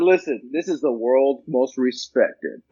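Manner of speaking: slow, low movie trailer narrator. Retold or imitated. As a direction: imitate a deep-toned movie trailer announcer, slowed down. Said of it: "He went into that voice".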